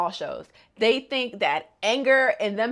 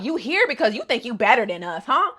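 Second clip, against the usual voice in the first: taunting; 4 semitones higher than usual. Retold or imitated. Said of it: "Kanako just like".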